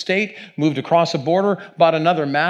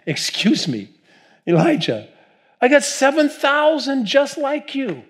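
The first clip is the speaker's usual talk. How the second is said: God with a Jewish-inflected voice, higher; Jewish accent; 11 semitones higher than usual. Acted. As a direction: answer Elijah with a wry Jewish lilt. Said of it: "not saying God spoke it with a Jewish accent".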